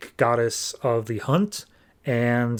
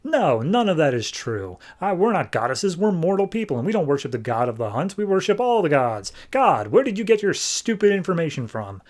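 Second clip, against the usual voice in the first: mocking scorn; 4 semitones higher than usual. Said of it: "laughs and laughs and says".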